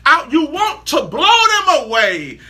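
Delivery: high, puzzled stammering questions; mock confused what are you; bewildered outsider. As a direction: play someone baffled and amazed. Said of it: "They like".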